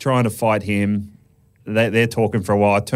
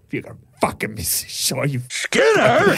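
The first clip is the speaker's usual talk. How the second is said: trash talk; 9 semitones higher than usual. Retold or imitated. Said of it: "Be like".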